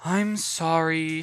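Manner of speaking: slow, sulky, dragged-out sorry; droning apology. Acted. Girl droning a forced apology to the woman. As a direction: say it like you don't mean it. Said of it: "she droned".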